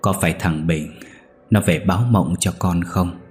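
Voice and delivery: a touch of grief, held back; mildly sorrowful, voice slightly unsteady; sorrowful trembling voice. Acted. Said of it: "âu sầu run giọng".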